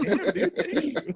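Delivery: laughing through an imitated sincere thank you; sincere heartfelt thanks. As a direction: thank him like you truly mean it. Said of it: "from his heart".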